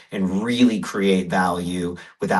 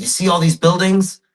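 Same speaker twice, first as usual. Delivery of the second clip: higher and louder, grandfather showing the buildings; lightly voiced grandfather, raised and eager; grandfather pointing; 10 semitones higher, 6 dB louder than usual. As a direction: call it out like an old man pointing out the window.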